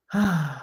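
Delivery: audible breathy sigh; short exhaled sigh; wistful sigh. Real, not acted. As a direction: let out a sigh over a painful memory. Sighing over a bad childhood memory.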